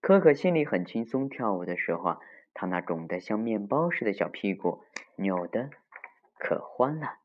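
put-on story reading to children. A narrator's reading. Telling children of Mr. Beaver's spanking, lively storytelling. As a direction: tell it vividly to the little ones.

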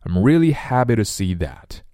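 "to" reduced to a quick "tuh" in "happy to see"; weak form. Shown as a demonstration. Teacher modelling the sentence, weak "to". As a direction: swallow the vowel of "to". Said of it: "to呢要弱读成t".

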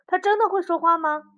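high, loud astonished question; amazed. Acted. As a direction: ask in disbelief. Hare asks in amazement.

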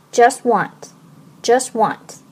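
very slow, careful linked just want; slow linking demo. Shown as a demonstration. Teacher slowing down to show linked t. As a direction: draw out "just want" so the t drops. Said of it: "和want连读".

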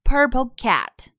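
slow, fully shaped "Purple cat"; full mouth shape. Shown as a demonstration. Teacher models the mouth shape, "cat" slow and fully shaped. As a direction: open the vowel of "cat" fully, slowly. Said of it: "一定要把口型做到位".

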